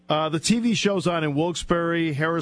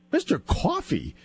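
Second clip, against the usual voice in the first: Trey's puzzled echo; 4 semitones higher than usual. Retold or imitated. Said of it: "you know how Trey talks".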